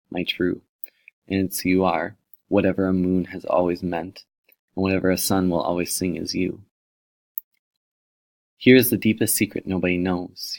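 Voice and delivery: a lightly lifted, tender recitation of a love poem; poem reading. Acted. Reads a love poem aloud.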